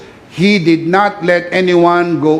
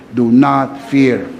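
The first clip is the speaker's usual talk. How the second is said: slow reassurance; 4 semitones lower, much slower than usual. Shown as a demonstration. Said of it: "Sabihin mo sa iyong katabi".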